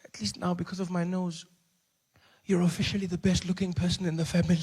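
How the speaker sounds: soft, halting mother's voice; quietly console, with pauses; soothing mom. Acted. Injured mom consoling her crying son, soft and soothing. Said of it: "She says".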